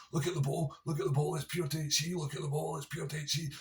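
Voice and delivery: high, squeaky mock voice for the wee guy insisting; mimicking Barry. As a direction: pipe up high and defensive, repeating the claim. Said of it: "he just kept saying over and over again".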